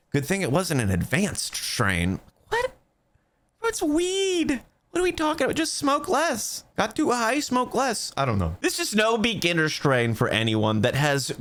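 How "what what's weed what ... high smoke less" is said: mock clueless stoner.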